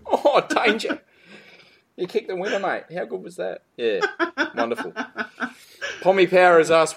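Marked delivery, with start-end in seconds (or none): 0.1-4.9 mock praise, high and drawn; dripping sarcasm at the rival; sarcastic.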